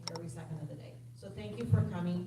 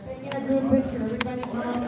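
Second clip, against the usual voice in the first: loud, high call to gather the group; calling out loudly; 5 semitones higher, 11 dB louder, faster than usual. Real, not acted. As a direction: summon everyone across the room. Calling everyone for group picture.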